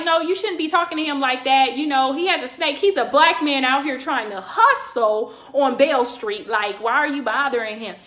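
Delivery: mild, reasoning protest at normal volume; not aggressive. Retold or imitated. Bystander reasoning with a cop about a street hustler, non-aggressive. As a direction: argue the point without aggression. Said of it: "but I'm not being aggressive".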